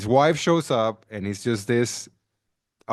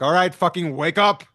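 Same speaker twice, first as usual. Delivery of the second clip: mock rough wake-up call, raised voice; higher, a bit forceful, retold; tough-love dad; 4 semitones higher, 4 dB louder than usual. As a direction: lightly imitate a dad ordering his son up. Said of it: "Southern tough love dad".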